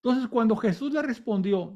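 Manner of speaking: ordinary talk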